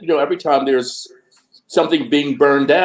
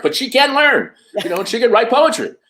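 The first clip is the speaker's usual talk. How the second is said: mock exhibitor; 9 semitones higher than usual. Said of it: "parading Black folks around".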